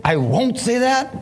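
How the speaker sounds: high, slow defiant refusal; refusal to God. Retold or imitated. Preacher retelling how he refused God, high and slow. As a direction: hold the line high and drawn out.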